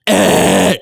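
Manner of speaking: rasping bark; false chord breakup. Shown as a demonstration. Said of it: "hear how I started really low".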